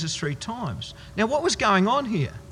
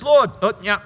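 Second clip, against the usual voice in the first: louder, brash boast of a too-sure disciple; bravado; 3 dB louder than usual. Retold or imitated. Peter boasting to Jesus, brash loud bravado. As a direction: puff up like a brave man. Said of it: "he was full of bravado".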